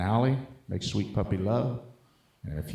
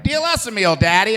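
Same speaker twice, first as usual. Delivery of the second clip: high, bright camp begging voice; Richard Simmons; 11 semitones higher, 7 dB louder than usual. Retold or imitated. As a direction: wheedle sweetly up high for food. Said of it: "Richard Simmons".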